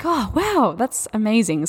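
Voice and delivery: high "Oh, wow" of pleased surprise; lightly played wow, rising high; mock amazement. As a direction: act delighted at the news. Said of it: "it's like".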